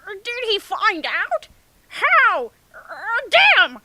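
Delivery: very high, loud squealing freakout; hammed-up panic. Hinata panicking.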